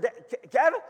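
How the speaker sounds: high, loud, stammered call; wife's startled outburst. Retold or imitated. Wife calling her husband after seeing the account, startled outburst. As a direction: stammer the name out in mock shock. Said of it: "Loretta looks at her phone and screams".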